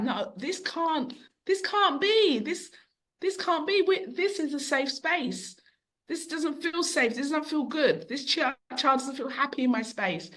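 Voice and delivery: retold realisation that this is all wrong; dismayed insistence. Retelling her own dismayed resolve.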